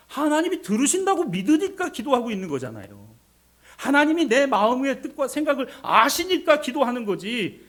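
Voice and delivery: loud, high pulpit insistence; full-force preaching. Real, not acted. Preacher explaining why people pray to God, full force.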